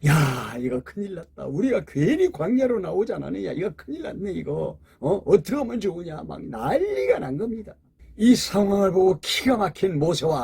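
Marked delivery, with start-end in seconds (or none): 0.0-6.2 panicked crowd. Retold or imitated. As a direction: act out frightened people fretting. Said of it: "막 술렁거리기를 시작합니다".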